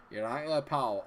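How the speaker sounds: imitated Glasgow greeting; Scottish accent. Stranger approaches on a night out in Glasgow, Scottish accent. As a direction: mimic a Glaswegian stranger's accent. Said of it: "someone's come up to me and gone".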